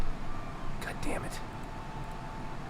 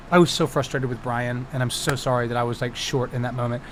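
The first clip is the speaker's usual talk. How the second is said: lower, softer, sincere retelling; subdued apology; 6 semitones lower, 5 dB quieter than usual. Retold or imitated. Game master texting player sorry for being short, subdued apology. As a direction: apologize quietly and earnestly.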